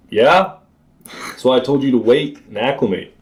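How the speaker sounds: lightly acted call back across water; friend calling back. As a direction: imitate a friend's told-you-so shout. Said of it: "And you go".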